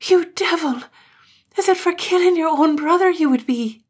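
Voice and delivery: high, loud cry of horror; horrified accusation. Acted. Katrine accusing Gloom of killing his brother, shrill-high and loud. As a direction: fling it at him in high-pitched outrage.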